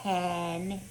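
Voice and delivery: soft whispered can. Acted. Brother whispering back at his sister, quiet and taunting. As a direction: drop to a near whisper. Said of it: "he whispered".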